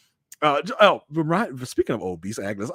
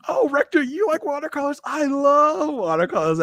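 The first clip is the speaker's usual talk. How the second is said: high, gushing flirty voice; flirty Ada; 4 dB louder than usual. Retold or imitated. Mimicking Ada flirting with the rector in a high gush.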